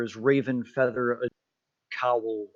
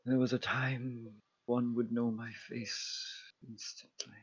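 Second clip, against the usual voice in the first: weary ancient goddess; 12 dB quieter than usual. Acted. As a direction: speak with faded ancient sorrow. GM voices weary ancient figure.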